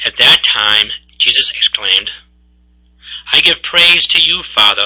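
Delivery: steady, solemn reading aloud; gospel proclamation. Acted. Reader to the congregation, solemn gospel proclamation. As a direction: proclaim it to the assembly.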